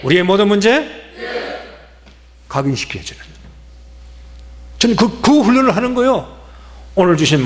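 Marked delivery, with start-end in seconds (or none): 0.0-2.5 slow cue rising at the end; slogan call. Real, not acted. Pastor prompts congregation for the final answer, slow rising call. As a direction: lift the last word for the crowd to answer. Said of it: "한번 해보십시다".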